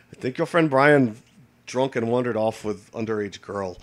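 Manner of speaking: half-hearted imitation of a Russian accent; bad Russian accent. Retelling what the Russian friend said, in a poor Russian accent. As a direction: attempt a Russian accent, not very well. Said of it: "I can't do a Russian accent".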